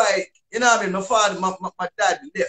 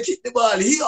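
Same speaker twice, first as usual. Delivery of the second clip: lightly mocked English accent, a bit higher; attempted English accent; 4 semitones higher than usual. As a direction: imitate your younger self attempting an English accent. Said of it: "I ended up kinda sounding".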